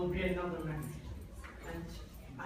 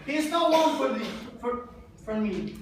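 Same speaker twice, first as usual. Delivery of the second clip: angry shout; 5 semitones higher, 7 dB louder than usual. Acted. Drunk father yelling at family.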